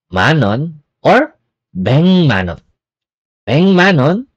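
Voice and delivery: beng manon, k becomes ng; correct pronunciation. Shown as a demonstration. Teacher modelling the right Korean sound. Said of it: "not pek manon".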